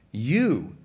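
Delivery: "You" leído con énfasis marcado; stress on you. Shown as a demonstration. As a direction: golpea la palabra "You". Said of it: "it's emphatic here".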